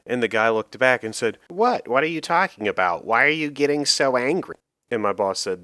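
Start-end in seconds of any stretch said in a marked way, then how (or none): 1.5-4.6 high, loud startled protest, rising to indignant; bewildered protest. Retold or imitated. Confused customer protesting to the angry boss, high and loud. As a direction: sound genuinely thrown by the yelling. Customer shocked by boss's outburst.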